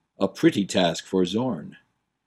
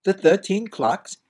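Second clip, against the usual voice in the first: put-on puzzled young prince; 9 semitones higher than usual. Prince baffled at the Duke's empty gesture. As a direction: blurt it out, baffled.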